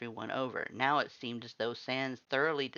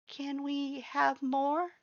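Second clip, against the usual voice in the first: much higher, slow, small voice; soft hopeful ask; much slower than usual. A narrator's reading. Butch softly asks the human for more cupcakes. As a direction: ask shyly with hope. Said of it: "his soft voice hopeful".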